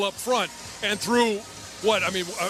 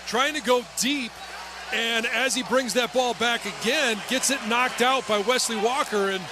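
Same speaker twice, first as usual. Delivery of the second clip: excited game call, building; live play-by-play; 3 semitones higher than usual. Real, not acted.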